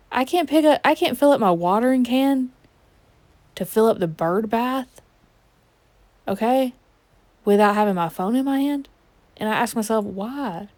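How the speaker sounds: slipping into a country twang; country-accented griping. Real, not acted. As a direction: drift into a light country accent. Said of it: "I'm going into a country accent".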